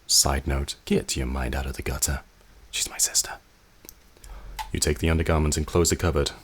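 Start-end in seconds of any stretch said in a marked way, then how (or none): 2.7-3.3 breathy unvoiced whisper; whispered to the player; whispered aside. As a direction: let it slip under your breath.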